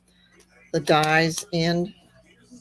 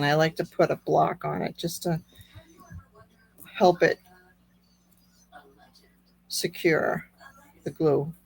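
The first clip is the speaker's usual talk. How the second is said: slightly squeaky, strained voice; a squeak creeping into the voice. Real, not acted. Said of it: "Sorry about my squeaky voice".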